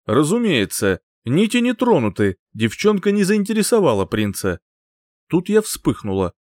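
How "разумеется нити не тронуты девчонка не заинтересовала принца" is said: a higher, dry court mage voice; smug archmage. Acted. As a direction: report with smug certainty. Archmage answers king.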